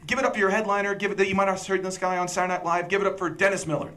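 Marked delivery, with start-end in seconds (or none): 0.1-2.3 higher-pitched stock emcee intro; emcee introduction. Acted. Showing how a comedy club MC should introduce, mock emcee. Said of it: "you've seen M Cs and stuff". 2.9-3.9 higher-pitched emcee name announcement; emcee introduction. Acted. Showing how an MC brings on Dennis Miller, mock emcee. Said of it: "you've seen M Cs and stuff".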